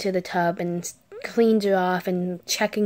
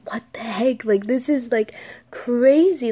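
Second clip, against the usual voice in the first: shocked disbelief; 3 semitones higher, 3 dB louder than usual. Retold or imitated. Teller's own shocked reaction.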